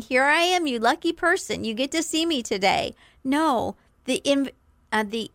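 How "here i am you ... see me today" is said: mild hammed-up vanity, quickening at the end; self-important. Shown as a demonstration. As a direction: show off like you're doing them a favour. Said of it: "It's like you're saying".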